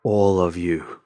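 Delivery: calm menace ringing out slowly; too calm creepy doll. Acted. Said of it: "its voice echoing throughout the room".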